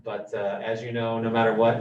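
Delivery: muffled by a face mask; through a face mask. Real, not acted. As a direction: speak from behind a mask. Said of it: "when you're speaking through a mask".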